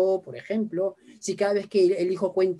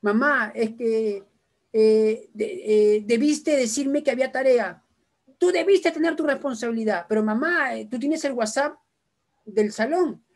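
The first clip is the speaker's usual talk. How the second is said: bickering grumblers; 3 semitones higher than usual. Acted. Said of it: "Escuchen a los renegones".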